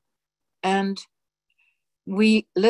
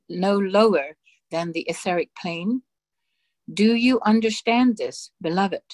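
solemn dictation. Acted. Reading God's dictation aloud to the congregation, solemn and measured. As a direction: intone each phrase with grave authority.

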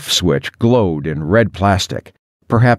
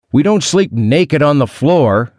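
yelling; 7 semitones higher than usual. A narrator's reading. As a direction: protest in a raised, high-pitched voice. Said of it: "I yelled".

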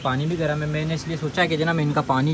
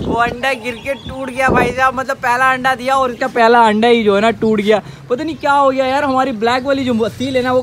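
laughing disbelief; 6 semitones higher, 7 dB louder than usual. Real, not acted. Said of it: "इतनी हंसी आ रही है".

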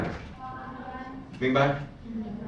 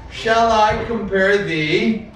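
recited poem line; 2 semitones higher than usual. Shown as a demonstration. Teacher reciting Shakespeare for the student. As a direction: recite it like poetry. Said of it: "I'll start it, you finish it".

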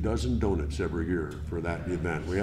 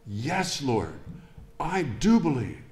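rising to a high, firm I do believe; emphatic affirmation; 5 semitones higher than usual. Acted. Martha answering Jesus again, ever more emphatic. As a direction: build it up, each word surer than the last. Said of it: "increasingly stronger and more emphatic".

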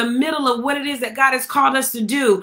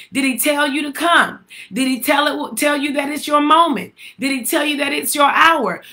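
preaching shout; 3 semitones higher than usual. Acted. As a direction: raise it and call it out to the church. Preacher calling out to congregation.

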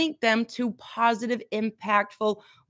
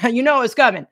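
laughing; 7 dB louder than usual. Real, not acted. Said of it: "I said that word".

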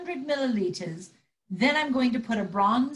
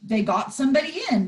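angry retort; 5 dB louder than usual. Acted. Furious row with Roger.

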